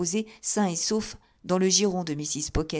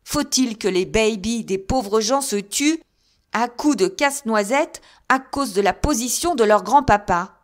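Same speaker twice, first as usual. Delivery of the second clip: husband with nowhere left to turn for help, loud and desperate; despairing outburst; 4 semitones higher, 7 dB louder than usual. A narrator's reading. Desperate husband shouting his protest to the table. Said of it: "ne sachant plus à qui demander secours".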